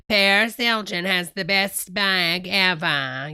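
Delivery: slow, lightly put-on host accent; TV show host accent. Streamer imitating a celebrity-show host's bragging, slow put-on accent. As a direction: brag slowly in a TV host's accent. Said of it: "I've lost the accent".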